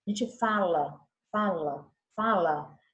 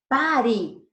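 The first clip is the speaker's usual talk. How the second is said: exclamatory command; 5 dB louder than usual. Shown as a demonstration. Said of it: "O ponto de exclamação".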